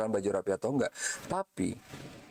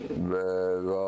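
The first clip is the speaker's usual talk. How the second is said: gentle teasing bego; 3 semitones lower than usual. Shown as a demonstration. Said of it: "orang nggak marah gitu".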